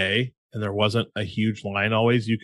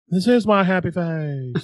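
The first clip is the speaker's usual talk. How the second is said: gruff Tommy Lee Jones; 7 semitones higher, slower than usual. Retold or imitated. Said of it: "Tommy Lee Jones as Groot".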